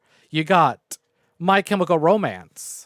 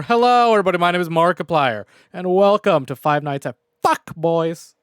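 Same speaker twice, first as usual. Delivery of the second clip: louder hammed-up YouTuber intro; Markiplier impression; 5 dB louder than usual. Streamer imitating a YouTuber intro, hammed-up. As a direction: open the video like Markiplier, half-mocking. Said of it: "I wish I had a voice like Markiplier".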